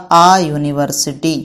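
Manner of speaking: slow and deliberate, like a teacher modelling the answer; teacher slowly giving the class the answer; slow model answer. Shown as a demonstration. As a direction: lay out "आ यूनिवर्सिटी" slowly and clearly, each word given its own weight. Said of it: "यूनिवर्सिटी में क्या हो जाएगा?".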